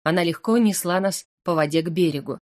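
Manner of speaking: ordinary delivery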